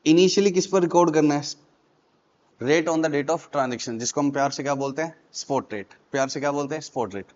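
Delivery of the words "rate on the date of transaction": slow dictation. Shown as a demonstration. Repeating the rule for students.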